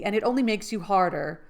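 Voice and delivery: loud, stubborn line; loud defiant. Acted. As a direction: push it out stubbornly. First take, loud.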